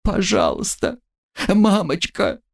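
high, pitiful call for mother; high whimpering cry for mama. Acted. Bound student crying for her mother, high and pitiful. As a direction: call for mama like a lost child.

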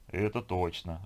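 understated, detached agreement; alien-sounding voice. Acted. Man answering the girl while staring into fog, detached. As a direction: answer evenly, a little removed from yourself. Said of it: "ответил Сергей чужим голосом".

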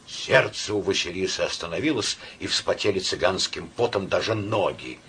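usual speaking voice

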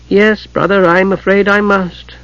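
a gentle, apologetic admission; gently. A narrator's reading. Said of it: "Gillian said gently".

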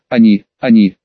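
put-on choked sobbing girl. A narrator's reading. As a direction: sob the words out. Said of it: "она заревела".

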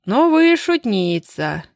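a lightly voiced old man ribbing her; amused teasing. Amused old driver teases her. (добродушная насмешка)

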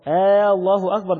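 "آه الله أكبر" opening on a long aa, turning it into a question; long interrogative aa at the start of الله; first vowel of الله stretched. Shown as a demonstration. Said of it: "ده كده استفهام".

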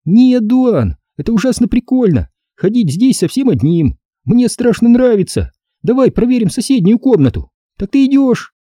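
put-on high, eager girl's voice; delighted to explore; girl thrilled. A narrator's reading. Стеф в восторге. (девочка в восторге)

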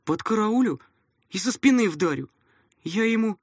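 put-on high, loud angry boy; a kid vowing revenge; heated boy threat.

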